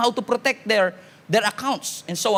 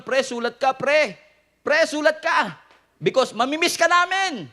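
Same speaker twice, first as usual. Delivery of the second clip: high, mock-sentimental farewell; toothbrushes left behind; 5 semitones higher than usual. Toothbrushes to their departing friend, mock farewell in a high voice. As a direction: play a buddy calling goodbye in a raised voice. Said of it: "ano kaya sinasabi ng mga naiwan".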